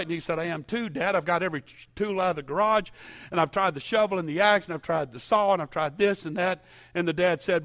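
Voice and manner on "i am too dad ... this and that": raised, louder mock exasperation; exasperated son. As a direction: list every failed attempt in lively frustration. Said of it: "he's all exasperated".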